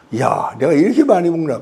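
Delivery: mildly acted amazement at oneself; surprised. Diner watching own meal on camera, mock surprise. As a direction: act out a startled realization, lightly. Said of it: "깜짝 놀랍니다".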